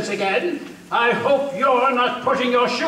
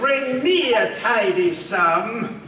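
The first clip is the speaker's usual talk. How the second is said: gloating laugh; 2 semitones lower than usual. Acted. Soldier gloating over the Puritans' furniture with a laugh. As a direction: laugh over the loot you are about to grab.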